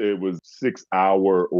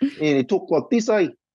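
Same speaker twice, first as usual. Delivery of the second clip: very high, nasal New Zealand accent; 11 semitones higher than usual. Describing how everybody in new zealand talks: nasal, high-placed new zealand voice. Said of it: "everybody talks, you know, kind of nasally".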